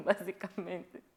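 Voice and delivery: word escaping through a laugh; chuckle, then say it still amused. Real, not acted. Host amused at describing her feelings live, laughing.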